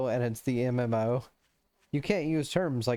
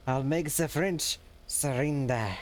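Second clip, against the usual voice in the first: mock German accent. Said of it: "I forget Smog's German".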